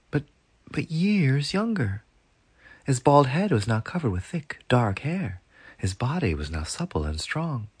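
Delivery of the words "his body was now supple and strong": plain reading voice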